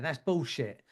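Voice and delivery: lightly voiced London gangster; a hint of London gangster accent. Shown as a demonstration. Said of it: "say it in a London gangster accent".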